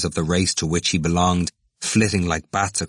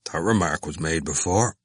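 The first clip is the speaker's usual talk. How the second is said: calm. A narrator's reading. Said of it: "Cranley said calmly".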